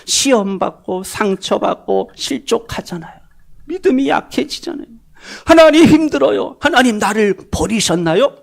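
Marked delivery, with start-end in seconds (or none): 5.5-8.4 protesting to God. Retold or imitated. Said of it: "이렇게 막 따지고 대들고".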